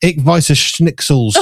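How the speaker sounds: "Ich weiß es Schnitzels", hard k in Ich, slow and deliberate; mangled German. Shown as a demonstration. Host showing what he learned today, slow mangled German. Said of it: "That's what I've learned today".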